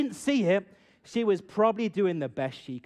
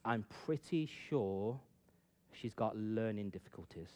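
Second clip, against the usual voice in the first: confiding sister; 7 semitones lower, 8 dB quieter than usual. Retold or imitated. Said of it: "My sister used to be a teacher".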